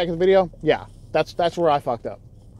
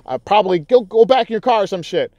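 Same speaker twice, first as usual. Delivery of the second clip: higher, louder sneering jab from the driver; mocking taunt; 7 semitones higher, 6 dB louder than usual. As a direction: mimic him talking trash at you, raised pitch. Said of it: "He's like".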